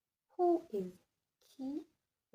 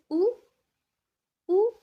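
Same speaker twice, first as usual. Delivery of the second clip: Ou pitched up like a question; questioning intonation; 11 semitones higher, 14 dB louder than usual. Shown as a demonstration. Teacher reminding class to put the interrogation, questioning Ou. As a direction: lift Ou into an interrogative rise. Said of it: "remember to put your interrogation".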